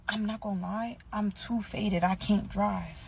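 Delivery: deadpan. Retold or imitated. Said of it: "with the straightest fucking face".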